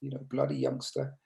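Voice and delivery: mock-gruff Yorkshire accent, played for a laugh; Yorkshire accent impression. Retelling an old cricketer's gruff remark, in a light Yorkshire accent. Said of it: "in his typical Yorkshire accent".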